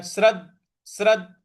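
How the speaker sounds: श्रद्ध with a hit on the द; stress on द. Shown as a demonstration. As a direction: punch the द in श्रद्ध. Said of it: "ऐसे बोलना है".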